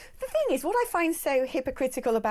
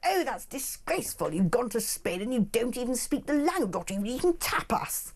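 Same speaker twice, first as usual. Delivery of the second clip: lightly voiced disapproving metropolitan snob; mock liberal elite. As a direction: tut disapprovingly, imitating a snob. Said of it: "they'd be like".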